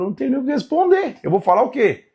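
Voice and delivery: high, stammering Job; a lost man fumbling for words; flustered Job. Acted. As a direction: Job speechless before God. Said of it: "Jó fala".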